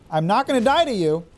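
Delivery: gloating, high-pitched shout of dominance; taunting shout. Real, not acted. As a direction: lord it over the foe. Taunting enemy during fight.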